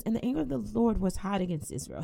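brisk, measured King James reading; scripture reading. Acted. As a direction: read the verse out with weight to the congregation. Reads scripture aloud.

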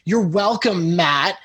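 a friendly, genuine "You're welcome, Matt", welcome drawn out; mean the thanks, gently; sincere you're welcome. Shown as a demonstration. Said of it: "hopefully you could hear my, my tone".

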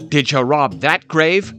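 pressing accusatory question; demanding. A narrator's reading. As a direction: demand an answer, pitch climbing. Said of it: "he demanded".

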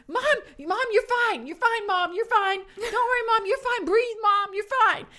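put-on high-pitched child voice; imitated reassuring kids. Kids tell their rattled mom to breathe, imitated high reassurance. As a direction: soothe Mom in a high kid voice.

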